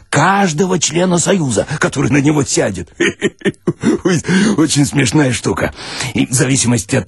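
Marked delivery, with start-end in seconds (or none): 3.0-4.0 a short breathless laugh; little airy chuckle at the story. Real, not acted. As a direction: burst into a quick unvoiced laugh. Laughing at own comic tale.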